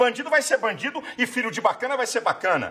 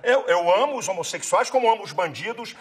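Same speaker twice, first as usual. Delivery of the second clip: emphatic, building in pitch toward the end; wholehearted declaration; 3 semitones higher than usual. Real, not acted. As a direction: declare it firmly on request. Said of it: "de boca cheia".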